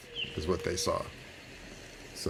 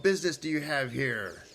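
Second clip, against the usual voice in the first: higher-pitched officious sentry; stern gate guard; 6 semitones higher than usual. Acted. Guard to traveler during lockdown, stern and officious. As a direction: turn the traveler away officiously.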